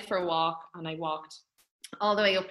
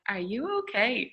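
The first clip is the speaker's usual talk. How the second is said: Zumba instructor checking on the pregnant woman, slow concerned question; concerned class leader; 4 semitones higher, slower than usual. Retold or imitated. Zumba instructor to a heavily pregnant class member, lightly imitated concern. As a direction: draw it out, lightly voiced concern. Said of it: "the lady running it was like".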